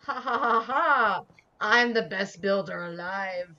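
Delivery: gloating mad scientist boast; cackle, then boast grandly. Pretend. Gloating over the build.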